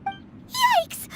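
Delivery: high startled squeak of fright; a sudden panicked yikes; alarmed yelp. Acted. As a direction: jolt back in alarm. Paimon alarmed at threat.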